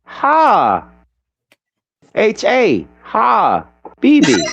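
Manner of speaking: Ha, H A, B B, each sound apart; spelling out Habibi. Shown as a demonstration. Teaching friends the parts of Habibi, sounds spelled apart. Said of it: "I'm serious".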